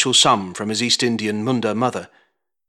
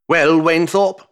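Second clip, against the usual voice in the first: wheezing; 7 semitones higher, 5 dB louder, slower than usual. A narrator's reading. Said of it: "Fairfax wheezed".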